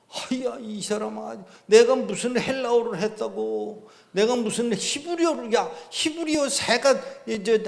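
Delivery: high, loud, incredulous protest; mock exasperation. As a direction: throw up your hands: how could I do that. Speaker retells his exasperated retort.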